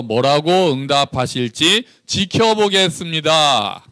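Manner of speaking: slow, deliberate Bible reading; scripture reading. Acted. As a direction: read it out slowly to the congregation. (천천히 또박또박 성경 봉독)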